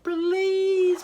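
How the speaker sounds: high, loud gurgled please; gurgling water. A narrator's reading. River gurgling its plea to the chick. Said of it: "so it gurgled".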